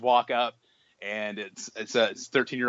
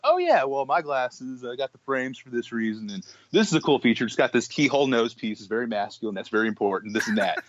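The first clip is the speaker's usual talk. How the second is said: excited about glasses. Retold or imitated. Telling the kids about his glasses, with mock eagerness. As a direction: retell your own keen glasses chatter, half-mocking. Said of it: "very excited to talk about my glasses".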